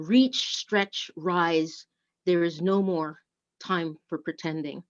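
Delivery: measured poetic reading, slowing on key lines; poem reading. Acted. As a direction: read it like a poem to the congregation. Reads a poem in service.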